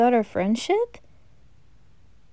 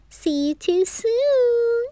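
giggly tease; 10 semitones higher, slower than usual. Acted. Teasing boys into closet.

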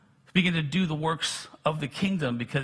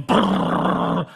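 imitated heater noise; 3 dB louder than usual. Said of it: "and it's going".

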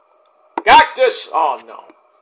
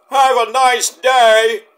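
plain catchphrase; 4 semitones higher, 5 dB louder, slower than usual. Shown as a demonstration. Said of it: "No, I have to say it like Mick".

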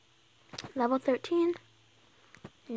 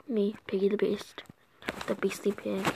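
whisper; 3 semitones lower, 6 dB quieter than usual. Acted. Self-intro whispered.

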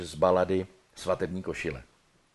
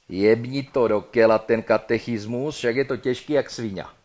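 louder coarse Brno hantec; Brno slang; 6 dB louder than usual. Acted. Dead man tells her to dump it, in Brno hantec. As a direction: order it bluntly in Brno slang. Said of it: "Brněnsky by to mohlo znít".

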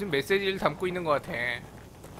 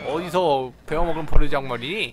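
mock scolding; 4 semitones lower, 6 dB louder than usual. Mock scolding rude character.

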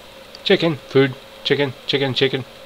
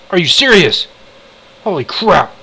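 shocked; 4 semitones higher, 4 dB louder than usual. Real, not acted. Finds his items gone.

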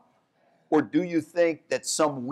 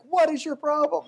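much higher, exasperated outburst; exasperated owner; 14 semitones higher than usual. Retold or imitated. Owner scolding the dog after being thrown out, high pitched. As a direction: turn on the dog in disbelief. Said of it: "he's like".

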